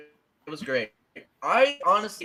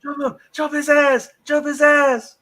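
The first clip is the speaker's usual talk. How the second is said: higher, louder yell at the screen; retold yelling; 8 dB louder than usual. Fan yelling at the screen during the fight, loud. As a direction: cheer them on at full voice. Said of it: "I was yelling".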